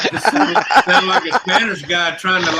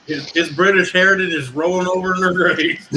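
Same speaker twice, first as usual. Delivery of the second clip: loud repeat. Real, not acted. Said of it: "You hear me?".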